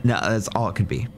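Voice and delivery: ordinary talk, nothing marked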